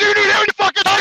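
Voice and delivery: high-pitched exasperated question; indignant, retold comeback; incredulous retort. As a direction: throw the request back in disbelief. Acted disbelief at coworker's request.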